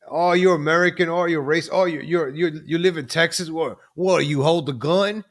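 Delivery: lightly put-on, failed British accent; mock Brit, British accent barely landing; bad British accent. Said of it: "I can't do the British accent".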